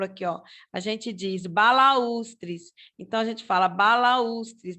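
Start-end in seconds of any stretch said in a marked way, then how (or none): 1.5-2.7 "balaústres" with U as its own stressed syllable, ba-la-ús-tres; careful teacher demo of ba-la-ús-tres in "balaústres"; separated U. Shown as a demonstration. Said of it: "o u fica totalmente separado". 3.7-4.8 "balaústres" split clearly before the stressed U; separated U. Shown as a demonstration. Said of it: "o u fica totalmente separado".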